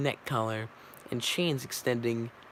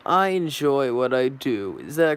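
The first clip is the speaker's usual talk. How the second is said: defiant witness; 6 dB louder than usual. Acted. Loyetta on the stand answering Barry, loud and defiant. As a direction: push back at the lawyer. Actor witness defends himself.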